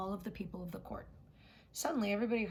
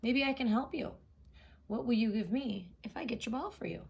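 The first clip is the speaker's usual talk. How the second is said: frog voice; 3 semitones higher, 4 dB louder than usual. Acted. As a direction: pipe up firmly as the frog. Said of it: "said the frog".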